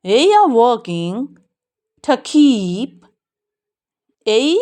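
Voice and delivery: very slow, every word drawn out; slow model reading. Shown as a demonstration. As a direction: read it word by word for learners. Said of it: "कई sound दे रहा है ये".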